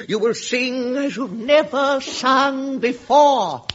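hammed-up hypnotist; hypnotic command. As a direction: intone it like a spell. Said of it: "you are hypnotized".

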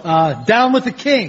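natural American delivery; convincing American accent. Acted. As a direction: recite it in plain American. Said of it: "can you do a convincing American accent".

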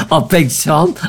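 amused, laughter spilling into the words; failing not to laugh. Real, not acted. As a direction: finish the introduction through a laugh. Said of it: "I would say that without laughing".

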